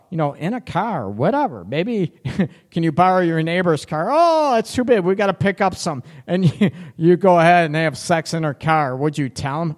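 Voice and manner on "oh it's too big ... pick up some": lightly raised, mocking tone; high mock voice. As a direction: squeak it out as a mock.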